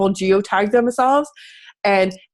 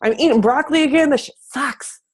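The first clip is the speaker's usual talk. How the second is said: higher, faster whiny mock grumble; mock whiny complaint; 4 semitones higher than usual. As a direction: act like a fed-up dieter griping about broccoli. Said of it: "'Cause you're like".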